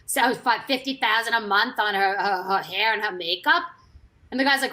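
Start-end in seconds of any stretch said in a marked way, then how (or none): 0.1-3.6 lightly imitated accent of a friend; hint at a friend's accent while quoting him; a light accent impression; Dennis's accent. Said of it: "his accent is like".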